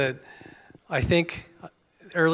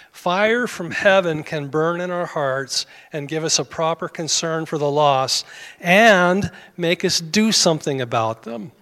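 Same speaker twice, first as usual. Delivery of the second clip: fervent preaching; 3 dB louder than usual. Acted. Preaching builds to fervour.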